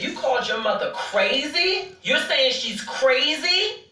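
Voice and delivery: retold disbelief, drawn out on a rising question; incredulous challenge. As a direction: throw it back at him, ending high. Retells confronting him about his mother.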